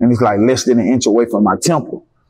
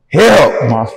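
retold holler for help. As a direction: call out help like he's bleeding in the lobby. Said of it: "hollering like a goddamn".

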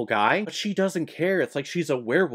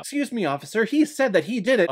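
hammed-up Ida; 8 semitones higher, faster than usual. Acting out Ida and the accused.

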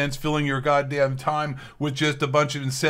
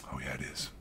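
sarcastic; 14 semitones lower, 18 dB quieter than usual. Acted. Sarcastic reply to corporate statement.

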